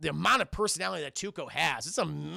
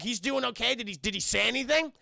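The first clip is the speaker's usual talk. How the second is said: mock concern; 5 semitones higher than usual. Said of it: "like, mock concern, Chad, faux concern".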